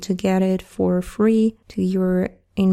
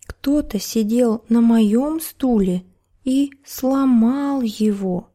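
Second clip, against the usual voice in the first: crying bear cub; 3 semitones higher than usual. Acted. Bear cub finds his chair broken, mock crying. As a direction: whine it like a small cub. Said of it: "заплакал медвежонок".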